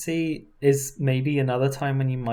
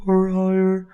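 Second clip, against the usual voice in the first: higher pitch demo; 6 semitones higher, 6 dB louder, slower than usual. Shown as a demonstration. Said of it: "lower or higher".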